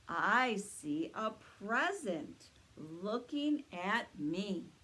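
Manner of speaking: slow booming Santa reply. Acted. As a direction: answer slowly like Santa himself. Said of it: "let's ask Santa what he sees".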